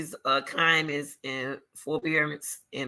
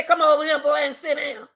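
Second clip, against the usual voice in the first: stern teacher; 8 semitones higher, 3 dB louder than usual. Retold or imitated. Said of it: "Then I say".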